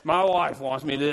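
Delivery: low, complaining coworker voice; mocking husbands moaning about wives at work, low grumble; mock grumbling husband. A lightly voiced whining husband. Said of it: "We go to work".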